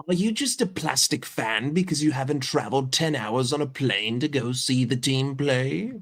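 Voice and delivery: a lightly hammed-up Anfield diehard grilling a fan; mock superfan rant. To a commenter who never went to Anfield, a taunting mock rant.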